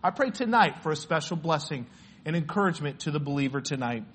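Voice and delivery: hushed, low-pitched prayer to close in Jesus' name. Real, not acted. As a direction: pray quietly and earnestly.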